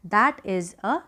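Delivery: slow, clear that is a tree with a fall on tree; slow teacher demo; slow model sentence. Shown as a demonstration. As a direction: read it slowly for students. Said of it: "तो हम क्या लगाएंगे".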